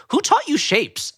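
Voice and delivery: high, slow and puzzled, not joking; disconnected delivery. Retold or imitated. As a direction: ask it earnestly, like a confused kid. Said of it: "he doesn't deliver it like banter".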